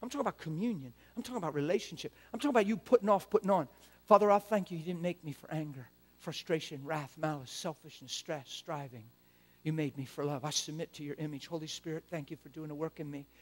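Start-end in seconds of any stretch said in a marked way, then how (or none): 4.1-13.3 quiet, earnest prayer voice; hushed personal prayer; soft prayer. Shown as a demonstration. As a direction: pray it softly and sincerely. Leads a quiet model prayer.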